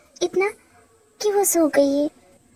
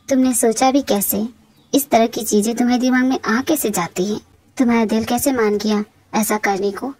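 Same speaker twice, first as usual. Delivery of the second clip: lightly voiced reproachful husband; 5 semitones lower than usual. Husband scolding his wife over the prank, mildly reproachful. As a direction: play a husband scolding, slightly lowered voice.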